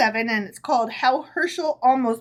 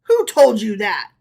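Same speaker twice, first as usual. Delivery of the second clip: angry; 7 dB louder than usual. Acted. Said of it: "beside himself with rage".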